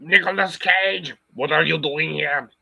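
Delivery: Arnold Schwarzenegger. Acted. Streamer greeting Nicolas Cage, mock-angry Arnold impression. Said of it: "that's me trying to sound like Arnold Schwarzenegger".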